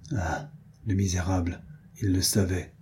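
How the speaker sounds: low, soft bitter murmur. A narrator's reading. Diane realizing the baron knew, soft bitter murmur. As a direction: mutter the accusation under the breath. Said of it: "murmura Diane".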